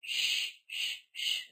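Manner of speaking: sh alone, as separate voiceless hushes; isolated SH sound. Shown as a demonstration. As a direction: repeat the bare sh consonant. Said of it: "the S H sound".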